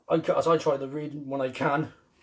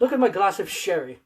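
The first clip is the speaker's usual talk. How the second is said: posh toff voice; 3 semitones higher, 4 dB louder than usual. Pretend. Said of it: "Let me get my monocle".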